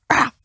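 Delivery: sudden mock-terrifying "Ah!"; a quick burst of pretend fright; jump-scare yelp, played for a joke; short mock scare cry. Acts out mock-scary costume reveal.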